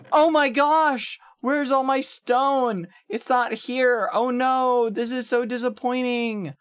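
high, drawn-out mock dismay; imitating Hannah freaking out. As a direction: wail slowly in a high, hammed-up voice. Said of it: "like, freaking out".

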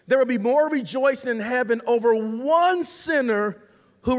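slow, measured reading with weighty pauses; scripture reading. Acted. Preacher reading the lost sheep parable to the congregation, solemn scripture reading. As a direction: read it out slowly, letting each phrase land.

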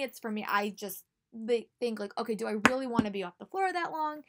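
usual speaking voice

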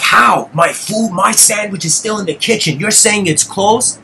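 intense retold protest. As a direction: re-enact a heated demand for an explanation. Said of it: "it was intense".

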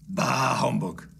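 slow, drawn-out miserly scoff; dismissive Scrooge. Acted. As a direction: wave the invitation away grumpily. Scrooge refuses the invitation.

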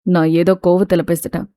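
longing plea. Acted. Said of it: "ஏக்கமாய் கேட்க".

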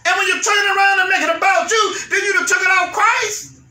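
building sermon cry; preaching at full force. Acted. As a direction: preach it out to the congregation.

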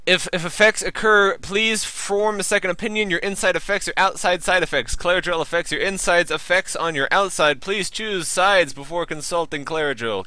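mock pharmaceutical ad voice; drug ad read. Reads drug ad copy aloud.

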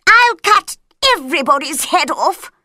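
queen threatens the quarrelling court, loud; angry queen. A narrator's reading. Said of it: "said the queen".

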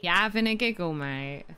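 plain Cockney "You having a giggle, mate?"; Cockney accent. Shown as a demonstration. Teacher repeats the Cockney phrase for learners. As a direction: model the Cockney line. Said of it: "if you want more Cockney".

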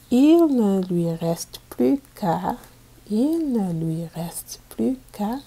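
put-on storybook reading for young pupils; reading to children. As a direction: read it out clearly for a class of kids. Teacher reads picture book aloud.

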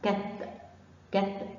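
short كت, ending on a vowelless t; one short syllable each time for كت; sukun on ta. Shown as a demonstration. Teacher repeats the sukun for children, short bare-t كت. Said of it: "لازم أنطقها مع الحرف اللي قبلها".

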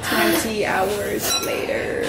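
slightly deep, drawn-out narrator; time-skip narrator. Pretend. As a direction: draw it out like a cartoon caption. Mock time-skip announcement.

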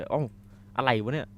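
sudden high startled shout; loud startled what-the; startled yell. Real, not acted. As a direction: jump at the noise and yell it. Startled by a noise in game.

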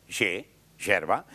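«ye, yerba» muy despacio, marcando el sonido de la ye; pronunciar la ye. Shown as a demonstration. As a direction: alarga «ye» como sonido y luego «yerba». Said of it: "por el sonido". (pronuncia «ye» y «yerba» lentamente, como lección de sonido)

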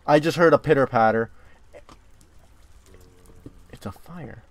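ordinary talk, nothing marked

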